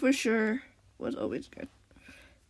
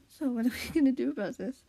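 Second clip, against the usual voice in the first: Squishy; 2 semitones higher than usual. Acted. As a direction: ask it evenly, without drawing out "so". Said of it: "Squishy asked".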